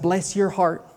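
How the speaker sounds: lightly put-on Southern accent. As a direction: church lingo in a Southern accent. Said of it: "I'm doing this in a Southern accent".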